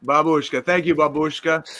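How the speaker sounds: babushka as BAH-boosh-ka, first syllable open; copying the clip's pronunciation. Shown as a demonstration. Host thanking grandmother, babushka pronounced BAH-boosh-ka.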